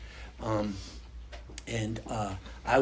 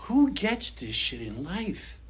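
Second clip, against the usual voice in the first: crying; 7 semitones higher, slower than usual. Retold or imitated. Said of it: "I start to cry".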